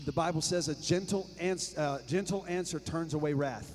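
soft voice. Shown as a demonstration. Preacher quotes gentle answer verse, softly. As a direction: speak it gently, almost hushed. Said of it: "you talk soft".

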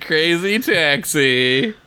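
slow, drawn-out mock game announcer. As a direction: call out the title like a loose arcade announcer. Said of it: "being the announcer on Crazy Taxi".

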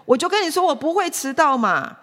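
put-on high-pitched, whiny child snapping back; impatient retort. Child answering nagging father, very impatient retort. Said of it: "孩子就很不耐烦的再回".

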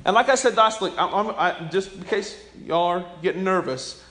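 ordinary talk, nothing marked

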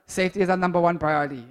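a hint of a Russian presenter's accent, quick. Youth leader imitating a YouTube host, light Russian accent. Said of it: "in his Russian accent".

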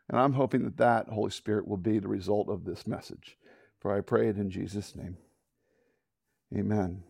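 low, subdued closing prayer. Real, not acted. Preacher closes his message, low and prayerful. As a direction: settle softly into amen.

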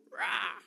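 feeble little imitation roar; badly faked little lion-cub roar; bad cub roar impersonation. Shown as a demonstration. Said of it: "That was a bad impersonation".

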